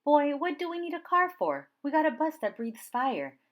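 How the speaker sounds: put-on a grandma cheerfully scolding her boy; lively grandma. Nana answers grandson playfully.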